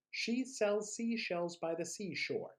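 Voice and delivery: speeding up the tongue twister. Shown as a demonstration. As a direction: pick up the pace on the twister. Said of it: "three times as fast as you can".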